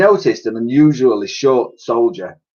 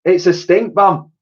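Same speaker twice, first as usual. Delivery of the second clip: high, loud comic lady voice; cleaning lady; 8 semitones higher, 5 dB louder than usual. A narrator's reading. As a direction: proudly add the excuse. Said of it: "added Dotty".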